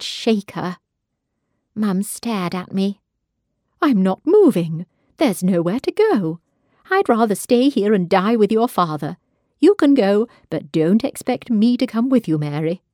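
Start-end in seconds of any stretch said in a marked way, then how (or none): 3.8-12.8 louder, stubborn mother; defiant refusal. Acted. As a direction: refuse with rising anger.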